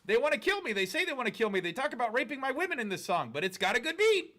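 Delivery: high, loud mocking fan voice. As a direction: sneer it like a clueless fan.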